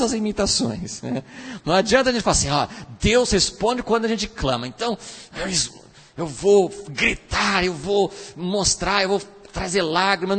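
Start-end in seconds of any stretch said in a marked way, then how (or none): 2.5-10.4 faked prayer. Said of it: "E não adianta imitar".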